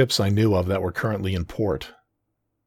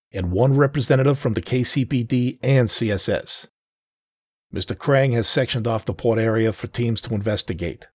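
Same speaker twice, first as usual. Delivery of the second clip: higher, louder sergeant voice; police sergeant; 4 semitones higher, 3 dB louder than usual. Acted. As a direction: lay out orders like a cop. Sergeant gives team orders.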